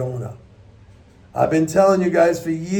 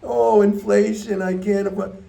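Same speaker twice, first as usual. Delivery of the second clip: mock whine; 5 semitones higher than usual. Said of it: "playing the victim all the time".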